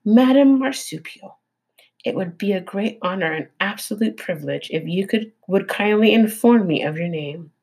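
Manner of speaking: robot forcing an overly polite friendly tone; a stiff robot trying hard to sound friendly; friendliest voice. Acted. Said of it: "in the friendliest voice she could muster".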